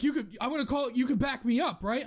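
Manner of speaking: put-on a scared young driver begging for support; panicky kid. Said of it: "He's like".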